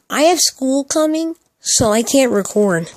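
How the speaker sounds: slow, high mock-whiny quote; mocking excuse. Mocking people's excuse for not posting.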